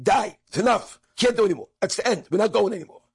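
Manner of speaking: retold scream of despair; mother's screaming. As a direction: cry it out like a mother at the end of her strength. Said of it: "she started screaming".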